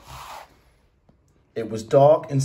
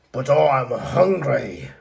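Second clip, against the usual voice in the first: very slow squawky bird voice; squawking albatross; 3 dB louder, much slower than usual. Acted. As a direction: whine it like a hungry seabird. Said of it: "the albatross squawked".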